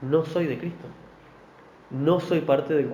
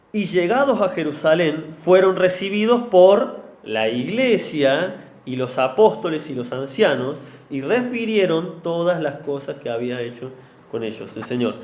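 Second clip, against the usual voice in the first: scripture reading. Acted. Reading Acts.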